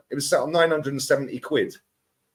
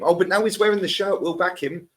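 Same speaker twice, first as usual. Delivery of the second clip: higher-pitched imitation of fickle fans; mock fan; 5 semitones higher than usual. Pundit mimicking fans backing the new shirt, high and mocking. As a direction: parrot the fans in a raised voice. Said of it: "No, you won't".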